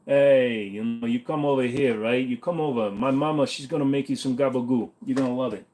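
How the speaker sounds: hint of an Italian-American wiseguy accent, offering food; mob accent. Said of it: "the other kind of mob".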